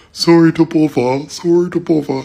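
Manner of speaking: high, mimicked English accent; mocking English accent. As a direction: repeat it as a mock English accent. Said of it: "I heard them go".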